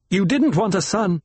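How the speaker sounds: high-pitched, bitter reproach; bitter accusation. A narrator's reading. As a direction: accuse your mother bitterly. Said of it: "She recoiled from his bitterness".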